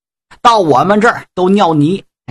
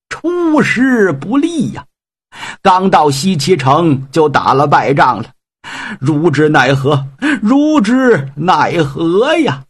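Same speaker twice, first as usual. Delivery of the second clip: slow, sighing lament of defeat; old general's lament; slower than usual. Acted. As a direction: drag out the sigh over the lost battle.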